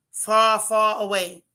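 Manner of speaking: slow, stretched-out words; emphatic drawn-out repeat. Real, not acted. Host wishing the character gone, slow and emphatic. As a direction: draw out each "far" for emphasis.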